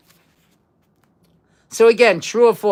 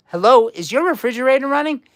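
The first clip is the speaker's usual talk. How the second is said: mock innocent phone greeting, quick and raised; prank caller; 5 semitones higher, faster than usual. Quiz host retelling the old prank call, cheeky caller. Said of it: "They would call up and say".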